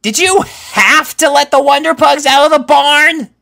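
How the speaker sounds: high, loud angry accusation; scolding. A narrator's reading. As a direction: scold a careless friend.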